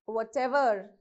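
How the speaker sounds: whatever with weight on the ever part; whatEVER, second part of whatever stressed. Shown as a demonstration. Teacher giving the example whatever, stress on ever. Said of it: "you have to stress on the ever part".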